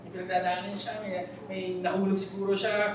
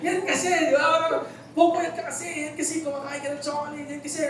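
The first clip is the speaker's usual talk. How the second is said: higher, louder, laughing mock nag of a strict mom; nagging mother; 3 semitones higher, 3 dB louder than usual. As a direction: rattle off mom's blame list, half laughing. Mother nags sick child. (nanenermong nanay, may halong tawa)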